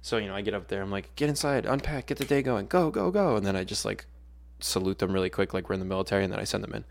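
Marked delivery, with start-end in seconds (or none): 1.2-3.3 brisk raised teacher call, rising to a shout; teacher hurrying kids. Retold or imitated. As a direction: hustle the class in, go go go. Teacher hurrying class inside.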